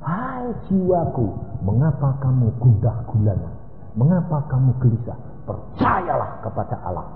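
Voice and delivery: soft, low musing to oneself; David addressing his soul. Acted. Preacher quotes David talking to his soul, soft inward voice. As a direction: gently question your own soul, quietly. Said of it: "Daud bilang apa?".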